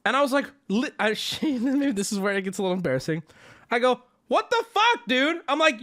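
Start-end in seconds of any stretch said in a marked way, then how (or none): 4.3-5.4 shocked high-pitched outburst; half-joking yell. Retold or imitated. Customer yelling at a drive-through kid, half joking. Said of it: "employees heard me yelling".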